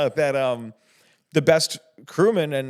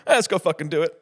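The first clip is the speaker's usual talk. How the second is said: surfer dude; 3 semitones higher than usual. Retold or imitated. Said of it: "a surfer mentality".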